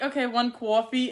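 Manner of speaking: parroting a Jersey "cawfee"; imitated Jersey accent, unwitting echo. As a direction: repeat the order with a rounded Jersey "coffee". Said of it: "I have to repeat it".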